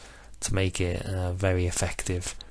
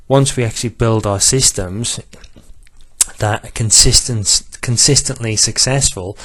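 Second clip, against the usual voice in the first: a bit louder, livelier pitch; injected excitement; 2 semitones higher, 4 dB louder than usual. Real, not acted. Vlogger talking up betting software to viewers, a little excited. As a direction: lift it with some enthusiasm despite a monotone. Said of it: "I do try and inject a little bit of excitement".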